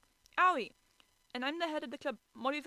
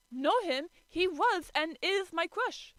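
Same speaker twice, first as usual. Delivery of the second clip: excited whisper; 7 semitones higher, 5 dB louder, slower than usual. Acted. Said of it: "I excitedly whispered".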